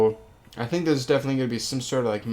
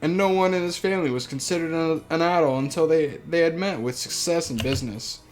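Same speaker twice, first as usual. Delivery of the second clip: reading the novel aloud; story narration. Acted. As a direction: narrate the family's story evenly. Reads the visual novel aloud.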